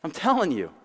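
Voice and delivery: high-pitched bleeped-out cursing, building to a loud denial; hammed-up comic outburst; Buster Bluth. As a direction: rain down mock curses, then protest loudly. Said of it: "channeling his inner Buster Bluth".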